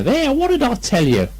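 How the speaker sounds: a hint of a coaxing mother; lightly voiced Kanga. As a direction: tease him gently. Kanga bathing Piglet.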